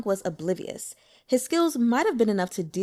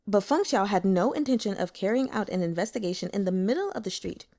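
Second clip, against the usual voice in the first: ordinary delivery, nothing marked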